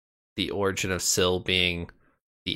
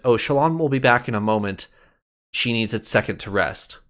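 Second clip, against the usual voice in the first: Vale's third person; 3 semitones higher than usual. Retold or imitated. Vale brushing off Adolin, lightly voiced. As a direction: lightly put on Vale, talking about herself. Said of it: "Talks about herself in the third person".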